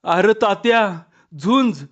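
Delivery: urgent warning in short bursts, mildly panicked; barely managing words. A narrator's reading. Mother running up to warn her son of the fight, alarmed. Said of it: "कसंबसं बोलून हातापायाचं अवसान गेल्यासारखी".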